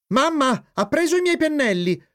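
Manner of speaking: put-on high-pitched child's complaint; protesting. A narrator's reading. Jeep telling mamma his brushes were taken, high protest. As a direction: complain high, calling for mum. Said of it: "protestò Jeep".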